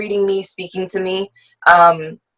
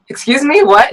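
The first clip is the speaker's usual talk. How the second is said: surprised; 7 semitones higher, 4 dB louder than usual. Retold or imitated. Five-year-old reacting to classmates' question.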